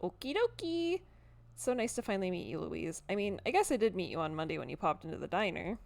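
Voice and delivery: lightly voiced, bubbly housekeeper; cheery chatty cleaner. Cleaner introducing herself to Tabitha's cousin, cheery. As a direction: chatter on eagerly with lilting pitch.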